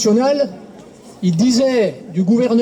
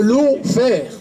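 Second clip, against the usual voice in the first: "lawfare" said slowly in a self-mocking English accent, "law-fare". Shown as a demonstration. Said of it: "excusez mon accent anglais".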